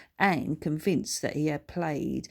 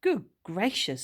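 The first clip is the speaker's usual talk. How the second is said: well-spoken voice; 3 semitones higher than usual. Acted. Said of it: "in a very well-spoken voice".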